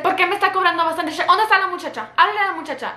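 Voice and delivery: high-pitched mock complaint; indignant customer. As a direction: act out a demanding, affronted customer.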